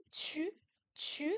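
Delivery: "chu" with the tongue kept forward; fronted Q sound. Shown as a demonstration. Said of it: "toujours devant".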